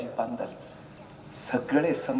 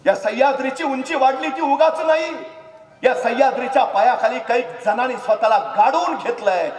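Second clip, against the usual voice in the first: high, loud fervent preaching; loud, high impassioned preaching; full-force preaching; 10 semitones higher, 6 dB louder than usual. Acted. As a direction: preach it with fire.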